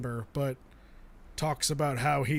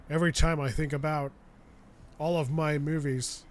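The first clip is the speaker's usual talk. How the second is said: Nicolas Cage impression. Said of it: "when I go into my Nicolas Cage".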